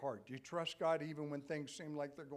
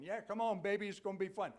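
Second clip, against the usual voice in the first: coaxing, higher and louder devil on the shoulder; tempting devil voice; 4 semitones higher, 5 dB louder than usual. Retold or imitated. Devil on the shoulder tempting a listener, coaxing. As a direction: lure them in like a sly devil. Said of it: "the other one's going".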